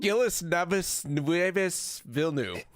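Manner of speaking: Villeneuve mangled slowly, Gilles Neves Nueves; fumbling through Gilles Neves Nueves Villeneuve; butchered French name. Real, not acted. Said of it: "butcher the name".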